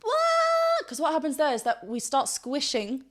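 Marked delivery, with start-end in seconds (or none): 0.0-0.9 high held wah; demonstrating the wrong squeezed wah; straight wah. Shown as a demonstration. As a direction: push straight up into it. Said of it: "Not just".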